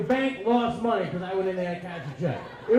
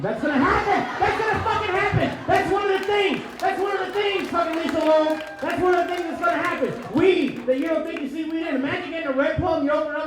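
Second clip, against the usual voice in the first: high-pitched, worked-up yelling; comic outburst, shouted high; shouted rant; 6 semitones higher than usual. Acted. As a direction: rant at full tilt, voice pitched way up. Worked-up rant about weed coupons.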